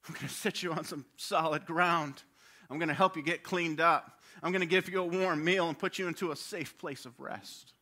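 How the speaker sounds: put-on steady, gentle promise to a child; reassuring rescuer. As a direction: hold him and promise safety. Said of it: "crawl in there and say".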